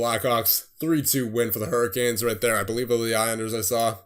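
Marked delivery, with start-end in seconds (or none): 2.6-4.0 strained, tired voice; losing voice. Real, not acted. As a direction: talk like your voice is going. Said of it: "Oh, I'm losing my voice".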